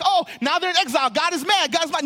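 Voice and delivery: mock panic. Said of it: "we're like".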